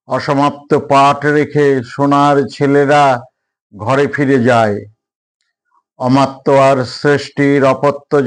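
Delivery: measured poem reading with long pauses between lines; deliberate, evenly paced verse recital; poetry recitation. Acted. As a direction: recite it line by line, letting each phrase stand. Recites second own poem.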